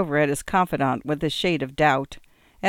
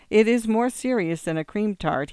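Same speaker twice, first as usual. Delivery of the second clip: with a smile; 5 semitones higher than usual. Acted. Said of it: "he added with a smile".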